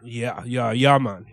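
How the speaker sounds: light put-on Jamaican patois; playful Jamaican-accent imitation; mock Jamaican accent. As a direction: try out a Jamaican island lilt. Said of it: "speak like a Jamaican".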